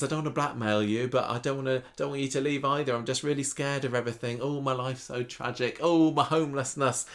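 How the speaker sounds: a teen milking sympathy, hammed up; mock tragic whine. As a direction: overplay the sob story. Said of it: "She says".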